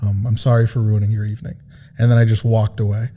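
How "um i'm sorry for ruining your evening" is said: low, soft mock-hurt apology; subdued, halting self-pity, played for laughs; meek, wounded apology. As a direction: apologize quietly as if your feelings are bruised. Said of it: "and my voice cracks".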